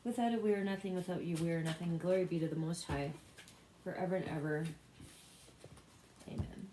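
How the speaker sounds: evenly recited personal prayer; spoken prayer. Real, not acted. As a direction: pray aloud in a steady, running litany. Leads an opening prayer.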